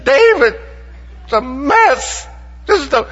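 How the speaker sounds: imitated sobbing. Bob sobbing to David on the phone, in a hammed-up high wail. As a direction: wail it like a grown man crying on the phone. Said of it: "he is sobbing uncontrollably".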